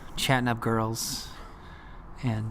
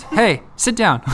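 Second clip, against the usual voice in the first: high, louder call; yelled call; 9 semitones higher, 7 dB louder, slower than usual. Retold or imitated. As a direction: call it out again in English. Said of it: "I yelled at her in Spanish".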